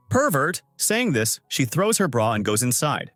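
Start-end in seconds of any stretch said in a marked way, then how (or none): 0.1-0.6 higher, a touch louder yelp; shrieking accusation, lightly acted; girl catching a man in her house, yelping up high; mock scream. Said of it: "screams loudly and says".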